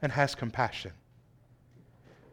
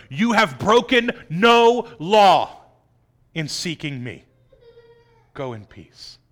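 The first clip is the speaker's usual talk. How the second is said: reassuring; 4 dB louder, slower than usual. Acted. Jesus reassuring the woman.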